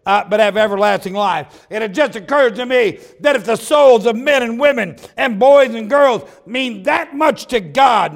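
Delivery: rising, ringing sermon delivery; preaching. Acted. Preacher rousing his congregation, preaching at full force. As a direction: preach it out to the pews.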